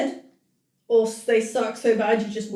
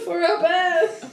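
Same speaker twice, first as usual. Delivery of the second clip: slow, higher rallying shout; hammed-up cry to arms; mock battle cry; 5 semitones higher, 3 dB louder, slower than usual. Host rallies for the bears, mock-heroic.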